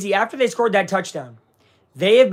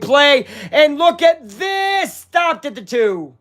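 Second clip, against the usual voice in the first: excited; 8 semitones higher, 4 dB louder, much slower than usual. Real, not acted. Big goal-line play live.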